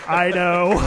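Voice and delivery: can't stop laughing around the words; laughing fit. Real, not acted. Laughing with cohost about the doctor, laughing fit.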